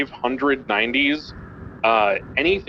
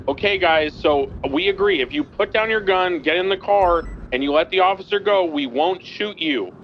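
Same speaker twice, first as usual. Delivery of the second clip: retold loud call; 5 semitones higher than usual. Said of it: "I told them very loudly".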